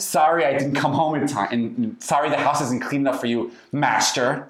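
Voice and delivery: insincere, pointed apology; passive-aggressive. Shown as a demonstration. Partner mock-apologizing for the housework, passive-aggressive. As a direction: apologize as a jab at your partner. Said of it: "that's usually a passive-aggressive insincere".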